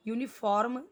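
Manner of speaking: "यूनिफॉर्म" with a heavily sounded r; mispronounced uniform. Shown as a demonstration. Teacher shows students what to avoid, "यूनिफॉर्म" with a hard r. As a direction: say "यूनिफॉर्म" as yoo-ni-forrm. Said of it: "यूनिफॉर्म नहीं पढ़ना है".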